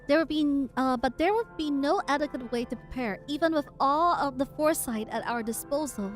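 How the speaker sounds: measured dramatic reading; story narration. Acted. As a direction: read the lines like a narrator. Reading the comic aloud.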